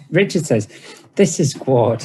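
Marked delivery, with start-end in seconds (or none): 1.2-2.0 mock introduction with a sneer; mocking "This is Gwart". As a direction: drip scorn on "This". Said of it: "he says mockingly".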